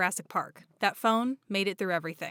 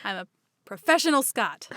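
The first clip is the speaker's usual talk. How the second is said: put-on light, joking Scottish accent; a hint of mock Scottish; attempted Scottish accent. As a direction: have a go at sounding Scottish. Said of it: "say it in a Scottish accent".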